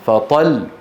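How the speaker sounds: فطل with the doubled lam pressed at the stop; pressed final lam. Shown as a demonstration. Teacher to students, correct pressed stop on فطل. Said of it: "بل يقولون".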